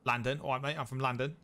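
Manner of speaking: imitated London accent. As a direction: put on a mock London accent. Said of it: "you got Smithy from London".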